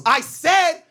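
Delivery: high slowed threat; menacing dude. Retold or imitated. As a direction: lean into the warning. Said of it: "Dude goes".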